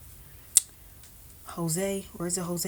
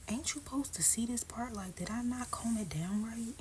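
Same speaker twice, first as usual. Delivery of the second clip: muttering to self; 5 semitones higher, 8 dB quieter than usual. Real, not acted. Muttering to herself over hair.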